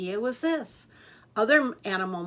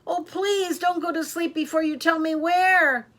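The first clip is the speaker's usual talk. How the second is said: loud pleading; 8 semitones higher, 7 dB louder than usual. A narrator's reading. Pleading with deaf owl.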